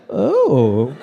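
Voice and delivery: put-on slow, posh British accent; dad putting on a British accent, slowly. Dad greeting the couple in a British accent. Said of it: "came up with a British accent".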